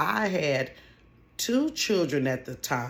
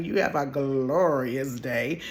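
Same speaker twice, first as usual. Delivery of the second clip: sugary phone sign-off; slower than usual. Retold or imitated.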